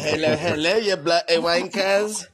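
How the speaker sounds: mock English accent. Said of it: "You don't sound nothing like".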